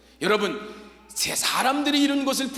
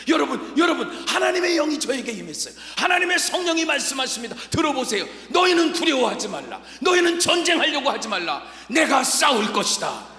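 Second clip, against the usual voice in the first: louder, higher proclamation; shouting prophet; 5 semitones higher, 4 dB louder than usual. Acted. Jahaziel proclaiming God's word to the people, loud. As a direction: call out like a prophet on his feet. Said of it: "그리고 외쳤습니다".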